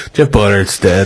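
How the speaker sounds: low, grave announcement; imitating solemn news-breaking; very serious. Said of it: "in a very serious voice".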